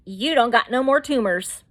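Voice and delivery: punchy, slangy mock-doctor announcement; unprofessional paraphrase. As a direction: blurt it out like casual good news. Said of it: "he didn't say it that way".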